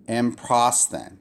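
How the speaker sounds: "M prosthen" drawn out slowly in two pieces; divided syllables. Shown as a demonstration. Teacher clarifies the line division, slow split syllables. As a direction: mark the break after M in "M prosthen". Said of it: "that's where, um, the, the line division is".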